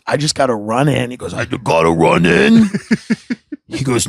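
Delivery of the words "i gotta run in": low, put-on voice of a friend; Brian Half. Friend pulls up to his house, low impression. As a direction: drop way down to mimic the buddy. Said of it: "he talks like this".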